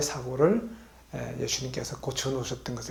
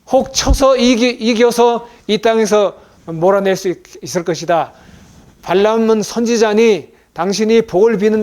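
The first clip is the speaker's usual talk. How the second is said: loud, high-pitched preaching delivery; scripture proclamation; 4 semitones higher, 10 dB louder than usual. Acted. Preacher voicing the king's plea to the prophet, loud proclamation. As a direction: read out the king's message at full, raised volume.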